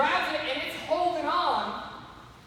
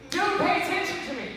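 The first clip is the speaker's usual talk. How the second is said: high, insistent play-acted yell; mock yelling; 6 semitones higher than usual. Snake yelling at the snake ignoring him, mock exasperated. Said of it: "he's yelling at him like".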